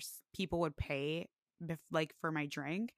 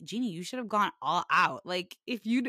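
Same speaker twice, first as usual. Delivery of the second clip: teasing brother; 8 dB louder than usual. Retold or imitated. Voicing brother Christian.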